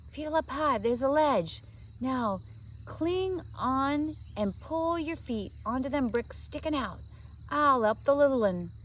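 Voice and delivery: put-on a street boy giving quick orders in the dark; cockney urchin. A narrator's reading. Jack voiced, London urchin.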